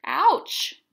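loud, high sympathetic wince; sympathetic ouch. Real, not acted. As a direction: wince out loud for the poor ogre. Reacting to the poem's picture.

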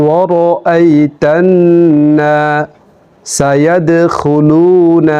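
careful teaching recitation, broken into pieces; Quran recitation, phrase by phrase. Shown as a demonstration. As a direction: recite the sura in short phrases with pauses between. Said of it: "আপনারা শুনুন".

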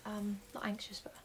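whispered aside. Real, not acted. Quiet aside to viewers.

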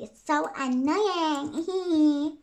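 drawn-out, slow silly whine; slow mock grumble; silly whiny talking. Real, not acted. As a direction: stretch it out in a goofy moan. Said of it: "I don't know why I'm talking like that".

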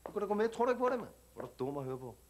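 put-on street slang Danish accent, cocky; perkerdansk accent. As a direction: talk like a tough kid from the suburbs, perkerdansk accent. Same immigrant youth character. (selvsikker perkerdansk accent)

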